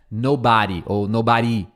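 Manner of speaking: "nobody" as no-BA-dy, then no-ba-DEE; common wrong stress. Shown as a demonstration. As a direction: shift the weight off the "no" of "nobody". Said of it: "muita gente fala nobody". ("nobody" com a sílaba errada forte)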